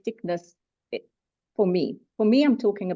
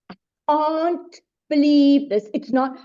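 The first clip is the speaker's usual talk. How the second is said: slow, louder incredulous outburst; mock angry outburst; 4 semitones higher, 5 dB louder, slower than usual. Speaker acting out grief anger to a group, building to a loud no.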